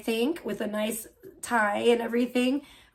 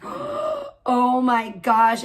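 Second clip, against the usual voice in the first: awed gasp; 4 dB louder, much slower than usual. Real, not acted. Gasp of awe.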